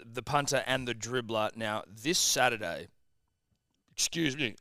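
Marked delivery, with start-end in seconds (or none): 1.6-2.9 talking through a burp; a slow burp pushing the words. Real, not acted. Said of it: "as I burp up a long black".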